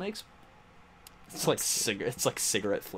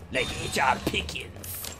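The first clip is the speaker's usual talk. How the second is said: whispered; slower than usual. Acted. Joking insult, hushed aside.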